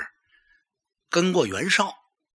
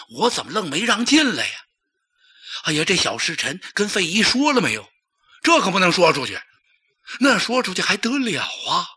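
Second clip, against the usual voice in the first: fretting courtier; 4 semitones higher than usual. Acted. Huang Hao fretting over missed news.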